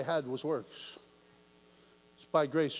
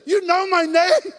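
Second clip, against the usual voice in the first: astonished cry; 10 dB louder than usual. Retold or imitated. Preacher reliving God knowing his name. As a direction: break into wonder. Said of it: "I'm like".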